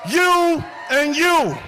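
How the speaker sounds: high, rousing call to the crowd; rally preaching. Real, not acted. Speaker asking a rally crowd if they are ready, rousing preaching. Hype man opens rally.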